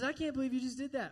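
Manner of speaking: high, quick mock disbelief; the devil. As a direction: heap on shame, incredulous and high-pitched. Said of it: "So he heaps the shame on you".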